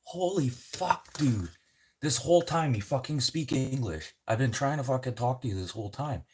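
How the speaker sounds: high, loud disbelieving rant; incredulous outburst. Retold or imitated. Passenger learning his driver spoke English, loud and high. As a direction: blurt it out, stunned he spoke English all along. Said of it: "Christoph sitting there like".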